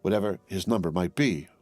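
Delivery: usual speaking voice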